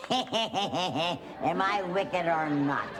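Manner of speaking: slow, laughing witch taunt; gloating witch. Acted. Grandma voicing the witch taunting the prince, slow and laughing. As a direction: drag it out, gloating. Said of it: "And the witch said".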